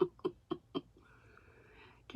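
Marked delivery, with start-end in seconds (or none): 0.0-0.0 reading without teeth in; gummy toothless speech. Real, not acted. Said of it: "I'm gonna sound crazy reading without my teeth".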